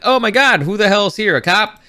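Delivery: mock alarm. Lady seeing an X-Wing arrive, mock-startled.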